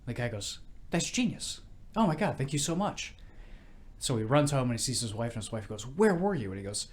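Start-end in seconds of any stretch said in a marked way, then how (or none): 0.9-3.1 acted grateful relief. Drunk thanks bartender in joke. 5.9-6.5 mock wifely scolding. Wife confronts husband in joke.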